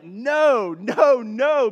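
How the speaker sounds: wife refusing to let her husband skip building the gifts, firm no. Retold or imitated. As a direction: shut him down flatly. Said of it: "she would be like".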